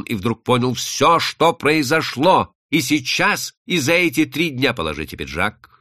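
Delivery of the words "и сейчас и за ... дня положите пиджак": abrupt order. Acted. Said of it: "сказал он отрывисто".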